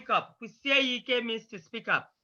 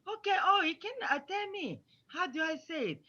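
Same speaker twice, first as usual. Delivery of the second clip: higher, softer voice of an obliging teacher; receptive teacher; 6 semitones higher, 5 dB quieter than usual. Shown as a demonstration. Miss Smith answering a pupil's correction, higher and receptive. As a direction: take the correction kindly, pitched up. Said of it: "And then Miss Smith will say".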